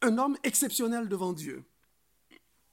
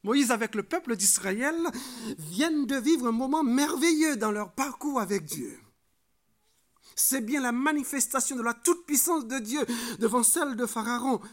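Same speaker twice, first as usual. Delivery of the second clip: higher, raised preacher's voice; emphatic preaching; 5 semitones higher, 6 dB louder than usual. Real, not acted. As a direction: exalt the wonder before the congregation. Preacher exalts the miracle. (prédication exaltée)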